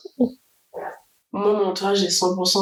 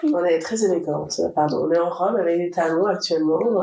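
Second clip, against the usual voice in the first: suave voice; 3 semitones lower than usual. Pretend. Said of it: "Pourquoi t'as pris ta voix suave".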